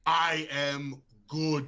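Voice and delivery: very slow, drawn-out retold cry; mocking imitation, spaced out word by word; mock yell. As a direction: repeat the hero's line, stretching every word. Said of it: "what does he yell out".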